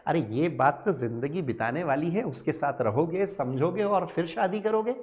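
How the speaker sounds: lightly voiced eager student, pestering sir; student asking questions. Teacher plays a curious student questioning his sir. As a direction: play the student who keeps asking sir.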